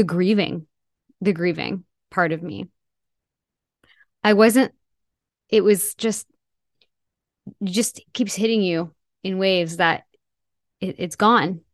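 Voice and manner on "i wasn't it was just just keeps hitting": barely voiced, grief catching the breath; broken whisper. Real, not acted. Grief breaking through speech.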